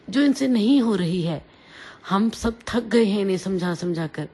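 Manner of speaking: a fed-up mother raising her voice; scolding her daughter in front of the family; loud scolding. Acted. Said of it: "mummy ने जोर से बोला".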